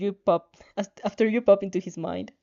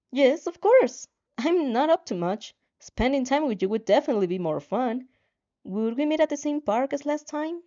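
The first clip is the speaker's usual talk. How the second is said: eager reply; 4 semitones higher than usual. Acted. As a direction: jump at the invitation.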